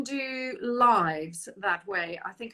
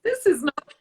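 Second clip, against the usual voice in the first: whisper; 8 semitones higher, 8 dB louder than usual. Real, not acted. Laughing aside during tech trouble.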